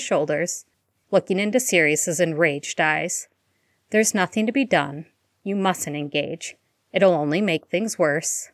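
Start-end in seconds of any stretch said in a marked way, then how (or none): 3.9-8.5 calm and steady, soothing his partner. Acted. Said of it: "Remus said in a calm voice".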